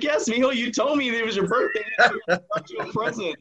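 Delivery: high-pitched, eager reply; retold excitement. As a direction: voice way up, playfully hammed up. Speaker replies at birthday party.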